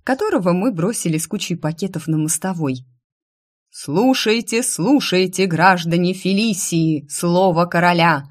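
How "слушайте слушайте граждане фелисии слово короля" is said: town crier. Acted. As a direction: announce it over the crowd. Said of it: "Громкий голос глашатая".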